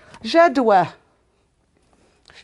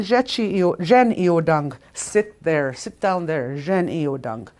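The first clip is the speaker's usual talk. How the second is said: slow, firm order to sit; command; slower than usual. Shown as a demonstration. Teacher demoing a command to a listener, firm. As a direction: lay down the order, no room to argue. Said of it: "That's a command".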